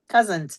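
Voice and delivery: "Cousin" with a T tacked on, "cuzint"; "Cousin" said as "cuzint", falling at the end; added final T. Shown as a demonstration. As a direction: confirm "Cousin" ending in a T. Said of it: "With a T at the end".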